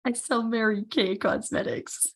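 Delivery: muffled behind hands; face in hands. Real, not acted. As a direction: speak through your hands. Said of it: "you said that like this with your hands over your face".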